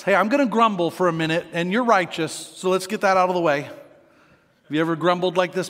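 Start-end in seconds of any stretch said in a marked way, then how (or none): 0.0-3.6 mock grumble. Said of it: "this little preface".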